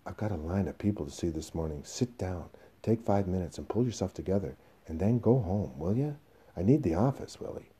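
restrained firmness; tightly held impatience; hard, controlled. Acted. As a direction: keep yourself under control while dismissing him. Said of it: "hard, keeping himself under control".

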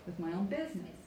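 "business" emphasised at the end; stress on BUSINESS. Shown as a demonstration. Coach repeating the model for students, "business" stressed. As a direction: carry the phrase to a strong "business". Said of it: "get to the end and get nice and loud".

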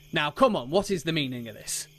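a touch of contained anger; muted fury. Acted. Sildar marches over to Albrecht demanding an explanation, muted fury. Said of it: "it's like muted fury".

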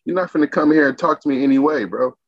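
retold defiance, pitched high; high-pitched mock indignation at the chef; indignant retort. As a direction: tell him straight he can't talk to you like that. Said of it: "I'm like".

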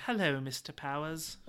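lightly attempted girly fembot greeting; half-hearted try at a girly voice. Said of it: "That's my girly voice".

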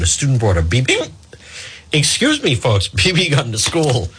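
hiccup breaks the word mid-read. Real, not acted. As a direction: read on through real hiccups, apologizing. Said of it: "Sorry about that".

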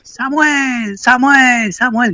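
mock shout of a name from blocks away, pitched high; calling out from afar. Friend yelling the nickname across the street, a mock far-off shout. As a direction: call the name three times like hailing someone down the street. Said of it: "gritándome".

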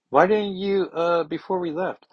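high, loud mock scolding; exasperated scolding. Nightcrawler asks Kitty about the pit stop, high exasperated scolding. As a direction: scold like a parent on a road trip.

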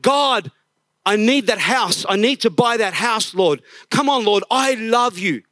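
hammed-up begging to God; whiny prayer. Pastor imitating a self-centred prayer, mock pleading. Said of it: "Instead of".

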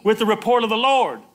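declaring believer. Acted. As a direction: speak it like a fighter who won't back down. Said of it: "The suffering you do is".

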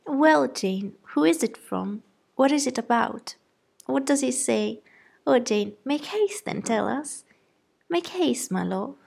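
high, loud impatient mother; eager calling out. A narrator's reading. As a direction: hurry Jane along excitedly. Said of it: "so eagerly calling out".

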